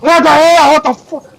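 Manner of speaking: high, loud startled outburst; alarmed sailors at a fire; startled crew. Acted. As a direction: yelp it out in shock.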